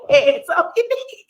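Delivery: high mock preacher call; high mock preacher echo. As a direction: toss the call back high and amused. Echoing the preacher, laughing.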